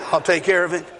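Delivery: amused mock of a kid's promise; knowing laugh. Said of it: "How many of you heard that before?".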